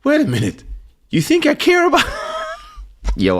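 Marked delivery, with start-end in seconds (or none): 0.0-2.0 shrill furious outburst; retold shout. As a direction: shout him down, outraged. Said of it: "I'm like".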